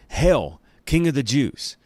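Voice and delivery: loud, high mocking hail to a king; mocking call. A narrator's reading. Soldiers taunting Jesus in a purple robe, mocking loud hail. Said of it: "They mocked".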